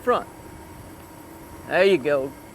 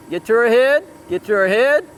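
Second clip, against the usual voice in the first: urgent call-out; 3 semitones higher, 4 dB louder than usual. Real, not acted. Coach calling out to rider mid-run.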